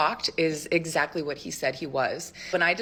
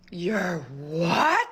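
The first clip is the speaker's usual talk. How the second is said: indignant retort. Retold or imitated. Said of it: "I, like, became a dragon".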